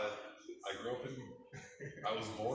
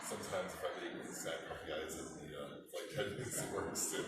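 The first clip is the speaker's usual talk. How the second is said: laughing. Real, not acted. Joking about flight attendants.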